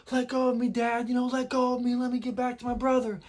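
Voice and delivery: high-pitched, pleading mock wail of a child; imitated bawling. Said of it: "he's bawling".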